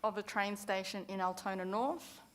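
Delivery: measured dictation with long waits between phrases; slow dictation. Real, not acted. Councillor dictating motion wording to whoever's typing, slowly. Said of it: "I'll read this out slowly".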